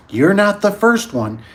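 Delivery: mock old nurse, dry and knowing. Old nurse telling the patient he's not the first, slow and high. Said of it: "And she's like".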